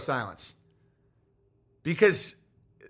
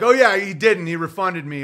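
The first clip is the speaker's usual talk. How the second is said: retold sudden loud admission; 2 semitones higher, 7 dB louder than usual. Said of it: "And he's like".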